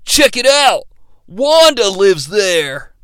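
slow lazy bro voice; dumb bro voice. Retold or imitated. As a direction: drawl it like a stoner bro. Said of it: "one of the bros says to the driver".

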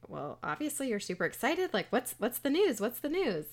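lightly acted, press eagerly for the news; excited mom.

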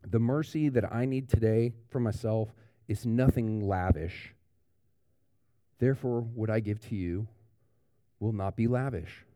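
lightly voiced stingy inner thought; a mild grudging take on nothing lavish; stingy thinking. Pastor voicing the grudging churchgoer, mildly begrudging. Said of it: "Those who at the end of the day think".

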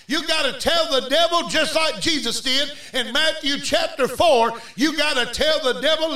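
insistent, building sermon delivery; full-force preaching. Real, not acted. Preacher urging believers to talk back, full-force preaching. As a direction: preach it hard towards a big declaration.

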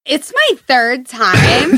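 put-on slow, bouncy valley girl lilt; valley girl voice, drawn out. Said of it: "don't talk like a valley girl".

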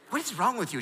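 high-pitched mock exasperation; retold marital spat. Wife to husband in the car after his invitation, mock scolding. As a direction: act out a wife's scolding. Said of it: "in the car having a fight".

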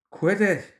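high-pitched narrated shout, little added volume. A narrator's reading. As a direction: cry out in sharp protest. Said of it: "he was shouting".

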